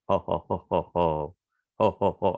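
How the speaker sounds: a lightly voiced hearty ho-ho laugh; mock ho-ho laugh at the warriors; distant laughter. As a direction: play the head laughing down from the hilltop. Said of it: "a laughing in the distance".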